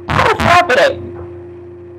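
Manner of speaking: slow, whispered shock; breathless disbelief. Real, not acted. Viewer upset at the baby being taken, whispered disbelief. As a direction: barely get the words out.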